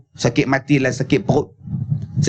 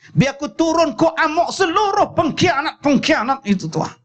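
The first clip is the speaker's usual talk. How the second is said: higher, rising to a shout, dramatic; heroic film warrior; 9 semitones higher than usual. Retold or imitated. Storyteller acting Jebat's defiant speech to Tuah, building to a shout. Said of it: "Dia jadi jebak".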